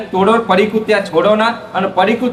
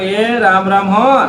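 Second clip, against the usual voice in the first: slow, drawn-out "એ રામ રામ હો" with a rise on હો; slow, gentle "એ રામ રામ હો"; drawn-out greeting; slower than usual. Shown as a demonstration. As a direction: stretch the blessing greeting "એ રામ રામ હો" slowly, ending up on હો. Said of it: "કહેવાનું".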